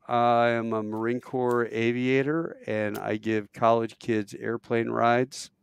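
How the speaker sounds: slow, measured statement; deliberate answer. Retold or imitated. Caller telling hosts his job, slow and deliberate. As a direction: spell out the job slowly.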